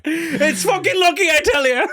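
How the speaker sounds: high, slow Irish leprechaun voice; mock leprechaun. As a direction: play a leprechaun through laughter. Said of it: "The leprechaun's a dealer".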